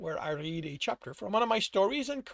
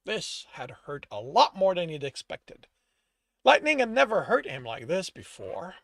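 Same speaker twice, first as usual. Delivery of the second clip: measured, dramatic storyteller read; story narration; 6 dB louder than usual. A narrator's reading. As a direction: narrate the scene with emphatic phrasing. Reads own story aloud.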